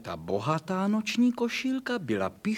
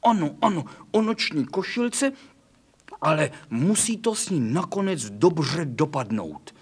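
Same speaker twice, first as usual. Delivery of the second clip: bright, louder puppy yes-yes; eager; 4 dB louder than usual. Acted. The doggy eagerly says yes to kitty's nightgown story. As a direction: jump at the offer like a delighted child.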